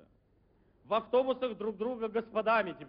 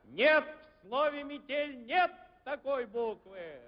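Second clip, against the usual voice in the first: game show host; 6 semitones higher, 4 dB louder, slower than usual. Pretend. Game show host rejects letter.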